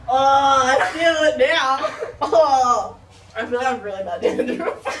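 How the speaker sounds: laughing. Real, not acted. Glitter and confetti dumped on her.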